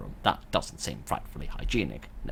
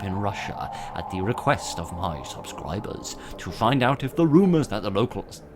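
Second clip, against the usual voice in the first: raised, emphatic narration voice; reading game intro aloud; 4 semitones higher, 4 dB louder than usual. Acted. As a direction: read the on-screen story out with projection. Reads the game's intro text aloud.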